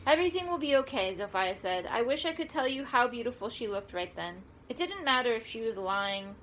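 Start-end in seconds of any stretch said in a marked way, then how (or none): 0.1-1.1 certain. A narrator's reading. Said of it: "with absolute certainty".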